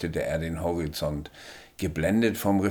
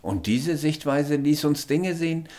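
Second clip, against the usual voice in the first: higher alien voice, drops to a whisper then hurries the end; hurried alien; 9 semitones higher, 3 dB louder than usual. A narrator's reading. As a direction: rush to finish the sentence. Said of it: "schloss er dann schnell seinen Satz".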